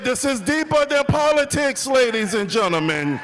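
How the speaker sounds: rally the crowd around each key word; rousing rally oratory. Real, not acted. Builds to rally climax.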